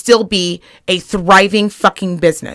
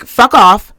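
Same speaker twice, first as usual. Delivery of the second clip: mock snarl; 4 dB louder than usual. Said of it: "you were like".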